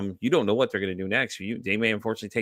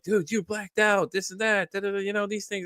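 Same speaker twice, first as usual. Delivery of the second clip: high-pitched mock buddy voice; imitated friends' report; 10 semitones higher than usual. Friends telling him he blacked out, high-pitched imitation. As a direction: rattle off the list in a raised, imitating voice.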